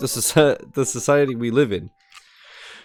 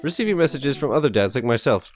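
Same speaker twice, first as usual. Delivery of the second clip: mock welcome message. Amanda's fake Dad Book welcome.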